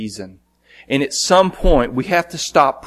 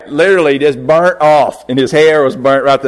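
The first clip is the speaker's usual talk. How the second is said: laughing; 2 semitones higher, 5 dB louder than usual. Real, not acted. Laughing at burnt eyebrows.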